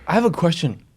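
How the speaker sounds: whispered aside. Real, not acted. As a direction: whisper the question. Suddenly lowers voice.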